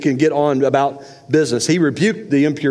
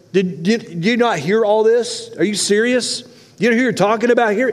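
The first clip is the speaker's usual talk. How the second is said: incredulous; 3 semitones higher than usual. Acted. Incredulous rebuke of the father.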